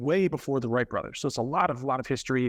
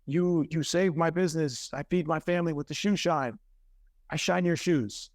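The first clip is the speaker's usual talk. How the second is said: imitating a Turkish shoe shiner's broken English, a bit higher; 4 semitones higher than usual. Grateful shoe shiner thanking the helpful tourist, mock broken English. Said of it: "in very broken English".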